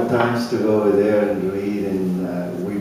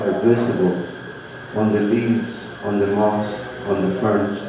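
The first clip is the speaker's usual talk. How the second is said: measured, slightly fuller poetry recital voice; unhurried recital with pauses between images; poem reading. Acted. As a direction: read it like a poet sharing his work at a cafe. Reads his own poem.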